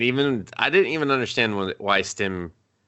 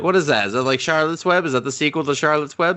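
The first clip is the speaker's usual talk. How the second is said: high, baffled mock-naive questions; clueless Gray; 6 semitones higher, much faster than usual. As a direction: ask like a lost man who's never heard of the internet. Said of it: "He's just like".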